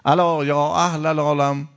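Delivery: slow, high heralding call; proclaiming cry. Retold or imitated. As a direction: call out as if to the whole world. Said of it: "مهدی سلام الله علیه هم فریاد زدن که".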